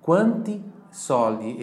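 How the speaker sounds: slow teacher demo; slow model phrase. Shown as a demonstration. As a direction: spell out each word for the class. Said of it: "Esse a é do verbo ter".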